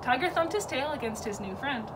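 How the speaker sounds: plain reading voice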